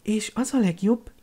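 magasabb, halk, örömteli lányhang; súgd oda örvendezve, halkan; örvendező suttogás. A narrator's reading. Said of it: "suttogta örvendezve Hermione". (halkan, magasan, titkos örömmel)

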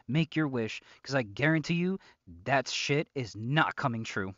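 mild angry rant. Acted. Snaps at the captive over candles.

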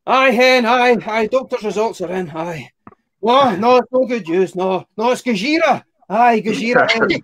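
a doctor breaking bad news by phone, hammed up; Scottish doctor. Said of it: "You could imagine the phone call".

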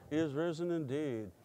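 low, soft, half-hearted congregational reply; subdued, lackluster response; mumbled back. Retold or imitated. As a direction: mumble it back dutifully, like proper churchgoers. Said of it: "we all mumbled back".

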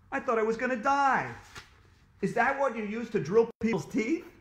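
put-on high, loud, alarmed boy; panicked. A narrator's reading. Boy asks dentist about the jackhammer, panicked.

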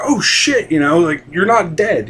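high relieved exclamation; mock shock of relief at seeing her; relieved surprise. Parents see their daughter.

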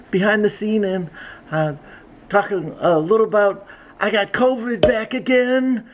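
mildly put-on chatty host voice; Logan, chatty vlogger. Plays Logan giving behind-the-scenes update.

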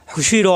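"হুশি র" ending in a heavy, rounded "র"; thick r. Shown as a demonstration. Teacher correcting the letter for learners, heavy "র" in "হুশি র". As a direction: make the "র" of "হুশি র" full and thick. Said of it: "মোটা হবে র".

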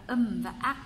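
âm and ác as two separate syllables; syllables read separately. Shown as a demonstration. Teacher showing the written syllables of 음악, each read separately. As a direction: say "âm và ác" apart, unlinked. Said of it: "nhưng mà chúng ta đọc nối".

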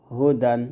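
"হু" kept short in "হু দান"; short vowel. Shown as a demonstration. Teacher shows pupils how it must be read, short "হু". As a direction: say "হু দান" without stretching the "হু". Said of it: "এরকম".

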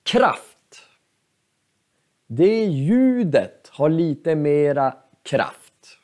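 whispered emphasis. Shown as a demonstration. Teacher whispering to show stressed force. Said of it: "man har mera kraft".

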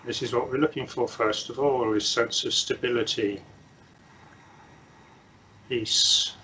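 unhurried meditation guidance with long silences; measured instructions, leaving long pauses to settle; guided meditation. Real, not acted. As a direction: guide them gently into stillness, phrase by phrase.

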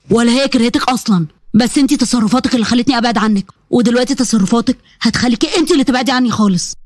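a hint of a hurt stern son; disappointed son. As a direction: reproach her steadily. Ahmed confronting mother.

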